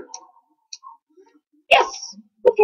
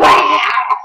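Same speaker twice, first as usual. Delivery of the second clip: imitating his own startled yell; a quick retold shriek; mock scream; 4 dB louder than usual. Retelling his scare to viewers, a mock yell. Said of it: "Best impression ever".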